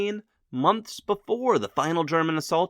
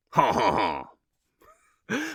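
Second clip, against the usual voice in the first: mocking laugh; 7 semitones lower than usual. Clemenceau impression laughing.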